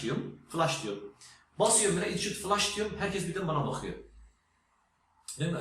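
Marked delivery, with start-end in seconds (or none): 2.1-2.8 'flash' said with an 'ah' vowel, like flush; yanlış telaffuz. Retold or imitated. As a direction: mispronounce 'flash' as 'flush', confidently. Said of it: "flash kelimesi U'yla yazılıyor, yazılanı okuyormuşum". ('flash' kelimesi 'flaş' diye okunarak)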